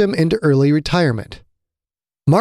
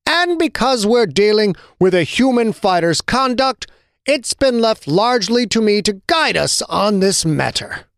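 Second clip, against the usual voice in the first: higher, put-on sincerity; falsely earnest; 8 semitones higher than usual. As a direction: lay the earnestness on thick, full of it. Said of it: "sounding so earnest he couldn't possibly be anything but full of it".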